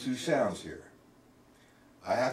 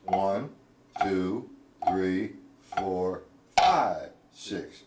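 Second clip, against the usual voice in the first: light and loose count; 6 semitones lower, much slower than usual. Shown as a demonstration. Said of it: "practice light and loose".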